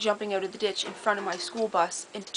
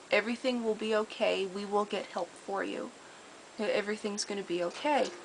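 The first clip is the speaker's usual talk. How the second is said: soft comforting; 4 dB quieter than usual. Retold or imitated. Comforting the unconscious deer.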